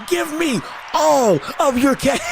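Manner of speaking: slow, hammed-up shouted stickup line; mock robber demand. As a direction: play a greedy robber demanding cash.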